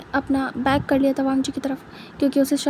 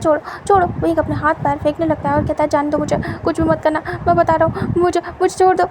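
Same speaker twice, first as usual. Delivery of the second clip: panicked captive. Acted. Wing struggling, voiced by narrator.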